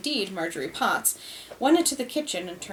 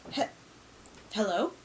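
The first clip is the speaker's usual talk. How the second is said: another voice; 5 dB quieter than usual. A narrator's reading. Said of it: "in another voice".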